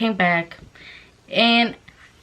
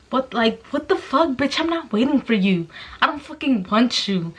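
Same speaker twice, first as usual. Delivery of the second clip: higher-pitched indignant outburst; 5 semitones higher than usual. Real, not acted. Telling off the jailed admirer who wrote her, indignant. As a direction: push him away, voice pitched up in exasperation. Reacting angrily to his love letter.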